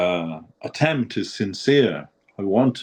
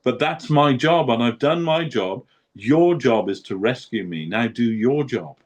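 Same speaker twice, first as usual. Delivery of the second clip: raised, earnest plea to the Lord; pleading prayer to Krishna; 6 semitones higher than usual. Retold or imitated. Guru addressing Krishna with a raised, pleading voice. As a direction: beg the Lord, voice lifted high. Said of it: "he said, he's talking to Krishna".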